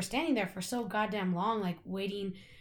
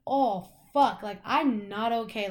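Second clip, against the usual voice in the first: alarmed realization; 5 dB louder, slower than usual. Retold or imitated. Realizing she is too high.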